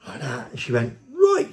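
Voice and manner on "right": sudden high loud yelled "Right"; retold shout. Policewoman shouting at the driver, a high loud yell. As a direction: bark it out high like an angry cop. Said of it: "while she's shouting and screaming".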